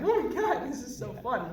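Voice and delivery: squealing with delight, pitch shooting up high; thrilled like a kid seeing the costumes; retold giddy excitement, high and loud.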